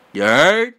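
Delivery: loud New York You heard, rising; New York accent. Acted. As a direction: shout it like a New Yorker. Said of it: "With that New York accent".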